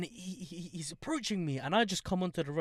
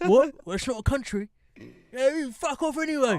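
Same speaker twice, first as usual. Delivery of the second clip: ранting far-right man; 8 semitones higher, 7 dB louder than usual. Acted. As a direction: put on a ranting far-right voice. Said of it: "The far right".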